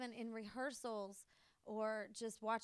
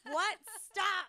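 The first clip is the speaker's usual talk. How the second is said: high loud what, stop; mock disbelief; 8 semitones higher, 9 dB louder than usual. Retelling seeing the tiny dog walk, loud amazed disbelief. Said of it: "and I was like".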